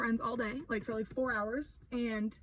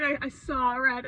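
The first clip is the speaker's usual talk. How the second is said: laughing; 4 dB louder, slower than usual. Real, not acted. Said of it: "I know that sounds so dramatic".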